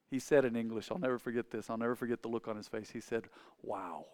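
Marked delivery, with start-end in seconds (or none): 3.6-4.1 put-on German accent. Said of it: "with a German accent".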